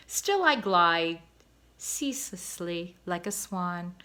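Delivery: lightly voiced proud father swan; poetic cob. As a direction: savor each word like a poet. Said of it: "made him feel poetic".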